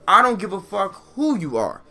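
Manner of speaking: loud, high-pitched furious yelling at the sister. Real, not acted. A furious daughter yells at her sister over her mother's name. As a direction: scream it out in full rage.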